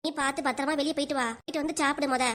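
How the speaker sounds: soft, meek show of motherly care; softly feigned meekness; put-on sweetness. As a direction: play the doting mother, quietly. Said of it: "இப்படி ஒரு நாடகத்தை நடிச்சேன் நானும்".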